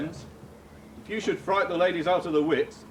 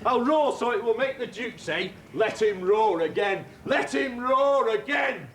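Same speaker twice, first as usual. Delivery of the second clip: boastful eager. Acted. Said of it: "Let me play the lion too".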